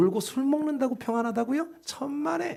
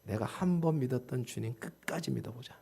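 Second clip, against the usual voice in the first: low, hushed resolve in prayer; retold prayer; 10 semitones lower, 10 dB quieter than usual. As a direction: pray it softly, as if to oneself. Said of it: "기도하는데". (낮고 조용히 다짐하는 기도)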